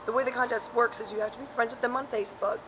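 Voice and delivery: talking while chewing gum; words round a piece of gum; mouth full. Real, not acted. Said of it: "Sorry, I've got gum in my mouth".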